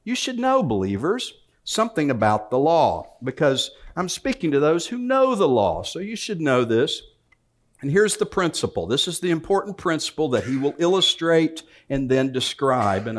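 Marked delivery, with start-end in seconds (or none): 0.0-7.0 a hint of Paul pleading with the church; voicing Paul. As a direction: lean in as the apostle urging them. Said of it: "He's saying".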